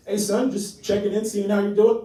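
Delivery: loud, tense dad checking in; half-yell it like an awkward loving phone call. Acted. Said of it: "kind of yelling, half yelling".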